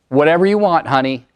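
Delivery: quick, curt answer; curt wife reply. Retold or imitated. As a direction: brush him off shortly. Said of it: "That was how her voice came out".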